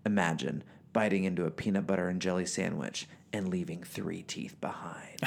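hushed ominous voiceover read; dramatic voiceover. Retold or imitated. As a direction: whisper the gruesome line like a PSA. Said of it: "in voiceover, the guy goes".

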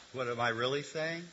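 usual speaking voice

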